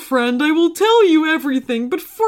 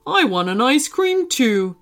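lightly whiny put-on character voice; complaining. Pizza wants an ice cream too, complaining. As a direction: complain like a left-out friend. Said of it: "he said in a complaining manner".

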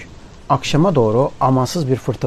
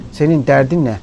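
a louder gruff call of the second voice; shouted; 4 dB louder than usual. Acted. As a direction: snap it at him, irritated. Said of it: "diye bağırdı ikinci ses". (ikinci ses ona sinirle bağırıyor)

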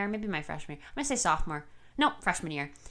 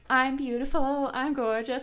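lightly raised, singsong mock vanity; preening pretty girls; 5 semitones higher than usual. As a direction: lightly imitate girls presenting themselves. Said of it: "Everybody else is like".

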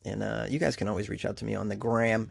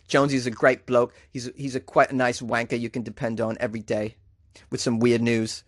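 mock British accent. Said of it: "throw in any other U K terms".

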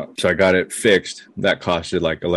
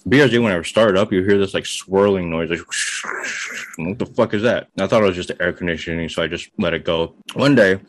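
talking while eating; words round a bite of chicken; mouth full. Real, not acted. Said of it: "sorry, I'm eating a chicken bake".

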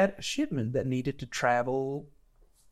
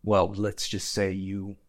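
low menacing threat; 7 semitones lower, 5 dB quieter than usual. Acted. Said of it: "he goes".

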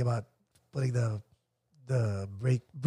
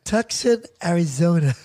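put-on American accent. Caller trying again with the operator, put-on American accent. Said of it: "Maybe I should put the accent".

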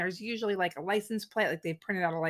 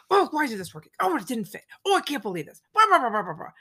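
mock exasperated grumbling; mildly hammed-up annoyed muttering to himself; angry, annoyed; 4 semitones higher, 3 dB louder, faster than usual. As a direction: imitate a handyman griping at every snag. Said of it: "he sounds super angry and annoyed".

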